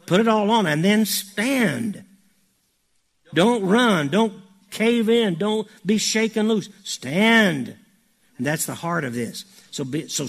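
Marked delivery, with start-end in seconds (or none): 0.1-7.7 high, loud preaching at full force; forceful exhortation. Real, not acted. Preacher urging the church not to cave in, forceful. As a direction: drive each command home, raised voice.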